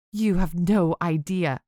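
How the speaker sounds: slow, venomous spit of words; spat. Acted. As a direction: spit it at her slowly. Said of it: "she spat".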